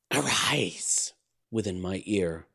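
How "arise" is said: unvoiced whisper in the ear. A narrator's reading. Fiend whispering a command in the sleeper's ear. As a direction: breathe it out as a whisper. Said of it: "gibbering voice whispered the word".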